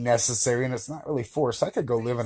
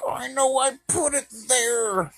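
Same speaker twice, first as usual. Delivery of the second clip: puzzled quote; 14 semitones higher than usual. Retold or imitated. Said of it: "and you're like".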